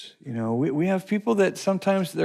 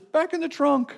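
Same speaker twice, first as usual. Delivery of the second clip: laughing command; 12 semitones higher than usual. Acted.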